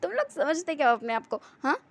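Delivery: understated scornful challenge, hint of amusement; lightly acted, oddly amused taunt; strange mocking tone. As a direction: toss it out mockingly, no shouting. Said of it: "हंसते हुए कह रहा था".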